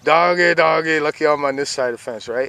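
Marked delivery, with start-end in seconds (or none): 0.0-1.0 calling the dog. Real, not acted.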